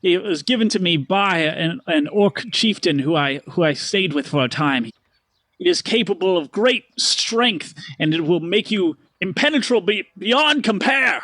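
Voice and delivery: grand, slowing showman boast; boastful merchant. Acted. Stanley boasting to Paxton. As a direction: brag about the armor. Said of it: "He goes".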